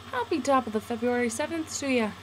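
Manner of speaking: light, mock Irish accent catchphrase; playful put-on Irish lilt. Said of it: "That was my Irish voice".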